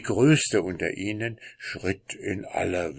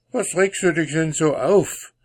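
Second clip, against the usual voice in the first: wife voice; 9 semitones higher, 4 dB louder than usual. Acted. Wife questions agitated husband.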